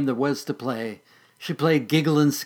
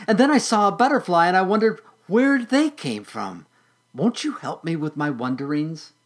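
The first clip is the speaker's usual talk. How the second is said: higher, louder, bubbling with questions; eager little caterpillar; 6 semitones higher, 5 dB louder than usual. Acted. Patty begging her sister for answers, eager and high. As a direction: tumble out every wonder to big sister.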